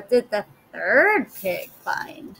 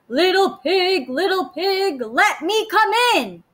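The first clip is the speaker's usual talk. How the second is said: higher sly wolf calling; 6 semitones higher than usual. Acted. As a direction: coax the pig like a wolf. Wolf at the pig's door.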